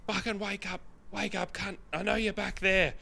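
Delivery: high-pitched mock drunk bloke banging on a door; drunk punter yelling. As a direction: play the pushy late-night punter demanding chips. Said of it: "the guy was going, like".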